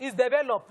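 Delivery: "develop." with the local Nigerian vowels; local pronunciation. Shown as a demonstration. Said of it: "local way of pronouncing certain words".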